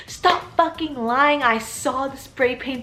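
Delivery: half-hearted retold yell of the angry principal; mock principal yell. Principal yelling at the class for the vandalism, mild mock yell. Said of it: "And then he starts screaming".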